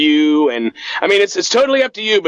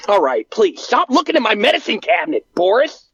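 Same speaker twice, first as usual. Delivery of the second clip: higher, annoyed plea; Bart voice; 3 semitones higher, faster than usual. Acted. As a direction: beg your cousin to stop snooping.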